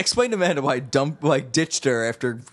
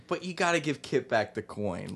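low murmur; 3 semitones lower, 9 dB quieter than usual. Retold or imitated. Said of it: "he's like".

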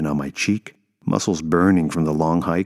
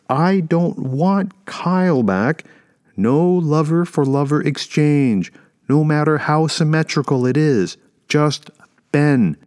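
high, loud, insistent plea; calling out; 10 semitones higher, 5 dB louder, slower than usual. A narrator's reading. Mother demanding her baby from the dragon, calling out loudly. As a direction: project every word up to a giant, drawn out. Woman bargains aloud with giant dragon.

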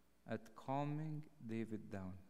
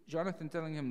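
ordinary talk, nothing marked

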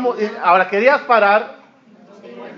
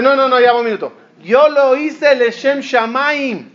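insistent protest; 6 semitones higher than usual. Retold or imitated. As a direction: stretch it out, emphatic and self-righteous. One side of a retold quarrel.

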